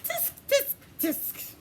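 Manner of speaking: high, teasing tut-tut; mock him like cheeky monkeys; playful monkey tutting; mocking tsk.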